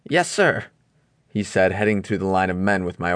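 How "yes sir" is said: higher, timid sidekick voice; nervous first mate asking anxiously; Smee voice. A narrator's reading.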